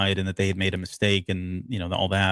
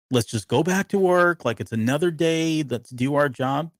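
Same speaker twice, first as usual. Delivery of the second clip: retold yell; 5 semitones higher than usual. Retelling Kino rallying everybody back to work, mild mock yell. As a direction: imitate someone calling out to a crowd, half-hearted. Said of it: "he starts yelling at everybody".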